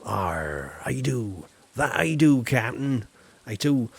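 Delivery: lightly voiced pirate; a hint of an old sea dog. Shown as a demonstration. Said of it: "I do a mean pirate voice".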